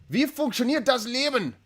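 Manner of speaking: slow, careful German read aloud. Real, not acted. Reading a viewer's German donation out slowly. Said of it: "Say that name again".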